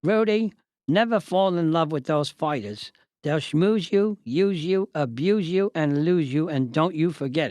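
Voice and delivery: a light hint of a deep Cockney accent; only a touch of a Cockney accent, mostly the narrator's own voice; Mickey Duff's Cockney. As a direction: lightly slip into Cockney for the boxing promoter. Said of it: "in his deep Cockney accent".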